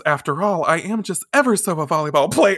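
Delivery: mock-genteel self-introduction; poshed-up schoolgirl. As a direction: play at being ever so refined. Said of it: "Poshing herself up".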